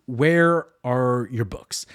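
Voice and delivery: slowed right down, each word weighed; slow pointed question. Retold or imitated. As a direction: drag it out like an accusation.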